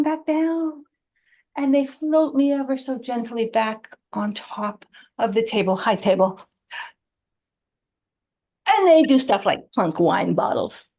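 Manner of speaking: lightly voiced dreamy tablecloth.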